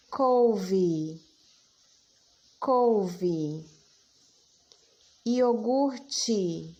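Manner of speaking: Couve and Iogurte dictated clearly with pauses; dictation. Shown as a demonstration. Teacher dictating words to children, clear and measured. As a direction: spell it out in sound for the class. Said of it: "Próxima palavra".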